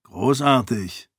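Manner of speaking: slow sour grumble; grumbling. Acted. Galadon grumbling at the rain, slow and sour. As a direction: drag the word out in mild disgust. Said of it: "murrte Galadon".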